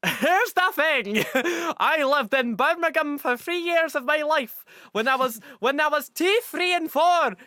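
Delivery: high, loud giggly talk; laughing. Real, not acted. Explaining his Birmingham childhood while laughing.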